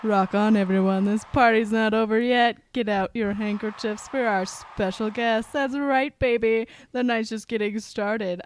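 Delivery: struggling deep stage-star voice; attempted low voice. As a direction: work the crowd in a forced low voice. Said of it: "I can't do the low voice".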